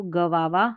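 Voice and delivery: गवावा as three syllables, ga-vaa-vaa; afwijkende uitspraak. Shown as a demonstration. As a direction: say गवावा with a plain "ga" opening, no "gu". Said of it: "उच्चारण थोड़ा सा अलग है".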